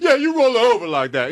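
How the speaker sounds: high, loud mock order; barking commands. Imitating a singer watching from the car, barked command. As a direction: bark it out like an eager director. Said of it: "barking commands".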